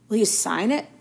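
put-on keen young fan asking; eager. A narrator's reading. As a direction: ask with bright eagerness. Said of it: "said Colin eagerly".

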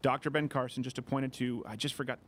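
thick-tongued, stumbling over words; swollen tongue. Real, not acted. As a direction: talk through a swollen tongue. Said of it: "My tongue is swollen from something".

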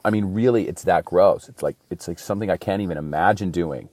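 breathless after a fast rant; running short of air, out of breath. Real, not acted. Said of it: "I'm running out of breath".

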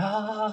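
high, soft, drawn-out "aah"; mimicked woman's gasp. Acting out the woman in the series, mimicked gasp. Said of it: "Böyle kadın böyle".

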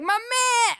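delighted cry of my man; excited greeting. Retold or imitated. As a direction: greet him like an old friend. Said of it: "And he's like".

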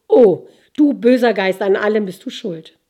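loud despairing outcry at the evil spirit; wailing lament, half sung out to the sky; anguished cry to spirit. Acted. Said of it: "weinte bittere Tränen".

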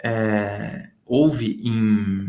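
words echoing as if in a big hall. Real, not acted. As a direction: voice with heavy room echo. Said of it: "o pessoal tá falando que tá com eco aqui".

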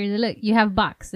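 slow imitating broken English; Asian doctor accent. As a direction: mimic the doctor's accent slowly. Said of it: "The doctor".

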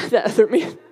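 said through a real laugh. Real, not acted. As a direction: laugh your way through the words "that other man". Repeats the phrase, then laughs.

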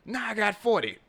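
squeaky high taunt; mocking high voice. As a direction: pitch way up, smug. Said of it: "Nigga pulled up".

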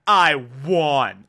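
slow, smug gloat. Retold or imitated. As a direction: savour the win, slowly and smugly. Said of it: "smug look on his face".

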